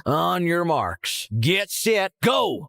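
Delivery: slow, high, drawn-out countdown; race starter's call. Acted.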